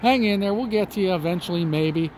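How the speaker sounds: put-on a drunk jeering at someone drowning; drunken voice. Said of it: "a drunken voice saying".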